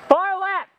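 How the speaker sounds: loud battle callout; cover me shout. Real, not acted. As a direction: shout the warning. Warning teammates in combat.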